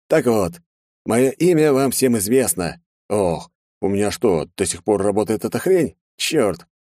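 put-on high, theatrical villain with a gun to a girl; a showman taking the stage, pitched high; mocking villain. Villain mockingly greets the aristocrats, high and theatrical.

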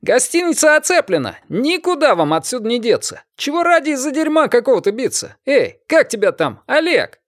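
a high yelling appeal; shouting. A narrator's reading. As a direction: shout it across at the hotel. Shouting up to the window.

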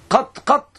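"قط، قط" as two separate short words; رواية "قط". Shown as a demonstration. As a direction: say "قط، قط" without a final ya. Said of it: "ولذلك يروى قط". (نطق "قط، قط" بدون ياء)

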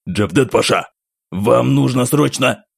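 urgent alarmed call; hurried, alarmed interruption. Acted. Officer jumps up alarmed. (встревоженный окрик)

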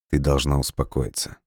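gentle. Acted. Dmitry calming his crying girlfriend, soft and gentle. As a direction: soothe her gently. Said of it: "мягко повторил парень".

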